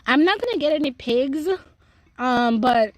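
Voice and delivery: ice cube in mouth. Real, not acted. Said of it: "an ice cube in my mouth".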